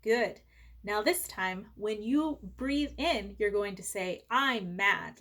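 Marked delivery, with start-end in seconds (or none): 4.3-5.2 calm breath phrase. Shown as a demonstration. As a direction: model it calmly for the kids. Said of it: "like this".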